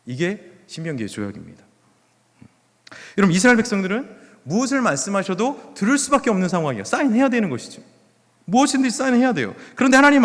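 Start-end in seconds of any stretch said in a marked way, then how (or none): none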